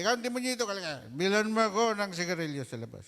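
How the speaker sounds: father barking orders. Acted. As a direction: yell the errand at the boy. Father ordering child for cigarettes.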